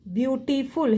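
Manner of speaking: "beautiful" measured out beau, ti, ful; split syllables. Shown as a demonstration. Teacher repeating the word for the class, "beautiful" syllable by syllable. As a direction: give each syllable of "beautiful" its own beat. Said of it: "is complete one syllable".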